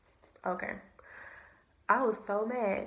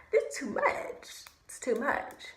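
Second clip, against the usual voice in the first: high breathy laugh through the words; overwhelmed, laughing half-whisper; 5 semitones higher, slower than usual. Retold or imitated. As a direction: laugh it off in disbelief.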